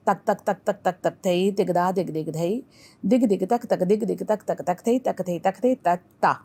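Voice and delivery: rhythmic recitation. Shown as a demonstration. Dance teacher demonstrating a tukda, rhythmic recitation. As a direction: recite dance syllables in quick, even beats. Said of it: "It's a tukda".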